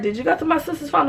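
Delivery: high, lightly voiced boyfriend; boyfriend's question. Boyfriend asks narrator, lightly voiced high question. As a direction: ask it stunned and high. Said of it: "So he's like".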